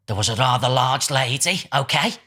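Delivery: slow, theatrical medium impression; mock psychic announcing a spirit, slowly; Derek Acorah. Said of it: "He's on that Most Haunted".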